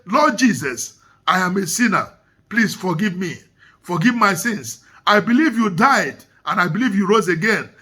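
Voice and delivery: measured, low repeat-after-me prayer; led salvation prayer. Acted. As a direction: lead them line by line through a prayer.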